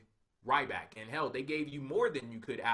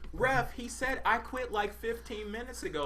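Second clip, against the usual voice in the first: raised, higher mock yell at the ref; half-hearted retold shouting, higher pitch; imitating a yell; 6 semitones higher than usual. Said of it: "that's what Lana was yelling".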